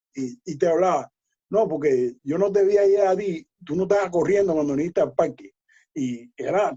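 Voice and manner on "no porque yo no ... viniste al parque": usual speaking voice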